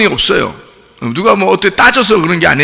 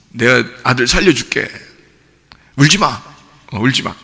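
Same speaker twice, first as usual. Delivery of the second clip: lower, softer consoling voice; a hint of Jesus soothing a mother; gently voiced Jesus; 7 semitones lower, 4 dB quieter than usual. Jesus telling the grieving widow not to cry, low and soft.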